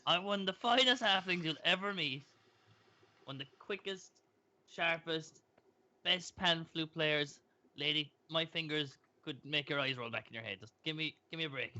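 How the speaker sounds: indignant halfling. Acted. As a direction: bristle back at the lady.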